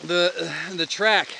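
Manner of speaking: winded from the climb, breathing hard. Real, not acted. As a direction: talk between breaths after a climb. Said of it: "Sorry, I'm a little bit out of breath".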